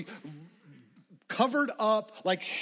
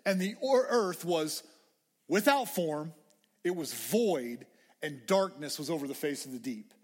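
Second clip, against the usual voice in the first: scripture reading; 3 semitones lower than usual. Acted. Reading Genesis aloud slowly.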